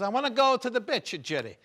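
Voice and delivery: Italian mama mispronouncing beach; mother's Italian accent. Retold or imitated. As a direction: say "bitch" for beach, Italian style. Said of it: "she's got the accent".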